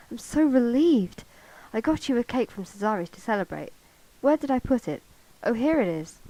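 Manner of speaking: loud, elated storybook dialogue; jubilant. A narrator's reading. Suitor celebrating being loved back, jubilant and loud. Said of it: "Michael said jubilantly".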